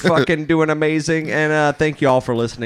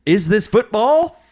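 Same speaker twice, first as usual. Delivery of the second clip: auctioneer voice. Pretend. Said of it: "here it comes my best auctioneer voice".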